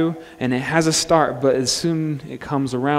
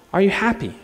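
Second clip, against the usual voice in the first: higher, lightly acted female crime fighter; crime fighter's question; 6 semitones higher than usual. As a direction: ask it higher, as the heroine. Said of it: "But she asks him".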